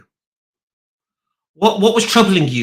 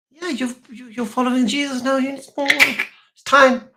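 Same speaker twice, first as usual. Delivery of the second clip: sly Jewish questioner; 12 semitones higher, slower than usual. Retold or imitated. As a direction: creep up on him with a high, hushed question. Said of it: "he gets these Jews".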